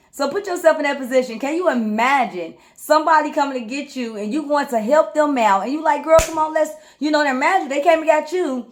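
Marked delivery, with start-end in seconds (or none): 6.0-6.7 high, loud come-on to a friend; rally her to come along; eager girl, come on; hyped urging. Retold or imitated.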